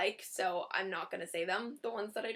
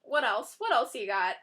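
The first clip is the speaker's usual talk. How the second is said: sassy; 3 semitones higher, 4 dB louder than usual. Shown as a demonstration. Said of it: "you're kind of saying".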